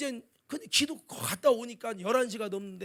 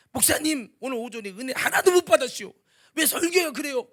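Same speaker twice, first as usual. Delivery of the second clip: complaining member; 3 semitones higher, 5 dB louder than usual. Retold or imitated. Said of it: "막 불평하면".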